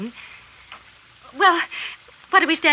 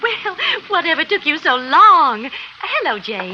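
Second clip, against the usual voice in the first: higher, louder, slow cheery hello; bright greeting; 5 semitones higher, 3 dB louder, slower than usual. Acted. Wife greeting the men as she comes home, bright and cheery. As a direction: sing it out as you come in the door.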